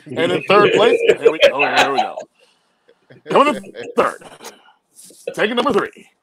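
a race caller dreading the next name; nervous announcer. Retold or imitated. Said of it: "you can hear the fear in the announcer's voice".

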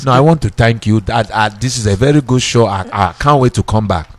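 a hint of his father's polite speech; imitating his dad thanking the host. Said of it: "I can talk like my dad".

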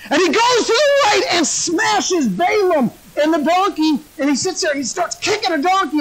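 high, energetic sermon storytelling; animated preaching. Acted. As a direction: drive the tale along with a preacher's zeal.

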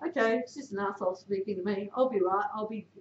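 soft muttered reassurance to yourself; calm yourself under the yelling; quiet self-talk. Retold or imitated. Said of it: "makes them feel better knowing that".

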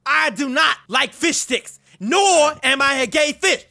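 a put-on rapper voice, brash and cocky; rapper impression. Trash-talking strangers in game chat, brash rapper voice. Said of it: "You guys wanna hear my real voice?".

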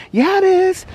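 high, loud mock insistence; silly teasing quote. Retelling Alex's morning joke, silly high insistence. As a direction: imitate someone playfully insisting. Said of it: "He was being so silly".

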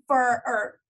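real false start, fumbling for the right word; tongue-tied stumble. Real, not acted. Coach fumbling a webinar's name, tongue-tied. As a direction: trip over the words and restart. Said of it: "sorry, I can't talk today".

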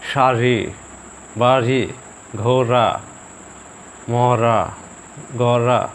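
শাড়ি, বাড়ি, ঘোড়া with the ড় pressed firmly; emphatic example words, tongue flapping down in শাড়ি, বাড়ি; forceful flapped R. Shown as a demonstration. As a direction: hit the flap in each word, one at a time. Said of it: "একটু জোর দিয়ে উচ্চারণ করব".

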